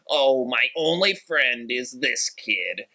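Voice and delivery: slow, put-on whiny teenage voice. Mocking Albus whining about his only friend, slow and whiny. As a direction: drag it out like a sulky goth kid. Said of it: "whiny, where he's like".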